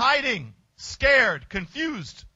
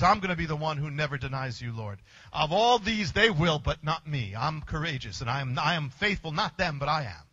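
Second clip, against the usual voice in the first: a lightly voiced Peter swearing loyalty; hushed, low boast of faithfulness; boastful Peter; 5 semitones lower than usual.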